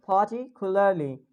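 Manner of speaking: "Particularly" said the American way; American accent. Shown as a demonstration. Teacher gives the American take for comparison, American accent. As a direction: sound the R in "Particularly", American style.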